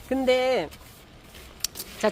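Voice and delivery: usual speaking voice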